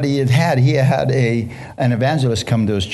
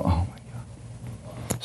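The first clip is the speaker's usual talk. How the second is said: slow, breathy whisper of dismay; 8 semitones lower, 13 dB quieter, much slower than usual. Retold or imitated. Preacher hearing the pastor's reply, a slow whisper.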